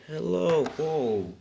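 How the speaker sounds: loud, high hero's entrance call; hearty hero greeting. Acted. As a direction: boom out a big acted greeting. All Might arrives and greets.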